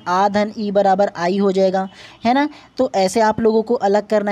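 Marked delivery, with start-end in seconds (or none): 0.1-1.9 slowly spelled out. Shown as a demonstration. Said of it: "आई जो लिखा है ना उसको आप लोगों को अलग कर देना है".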